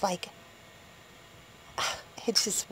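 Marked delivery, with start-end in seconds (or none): 1.8-2.7 sighing whisper. Real, not acted. Sighing over strange day.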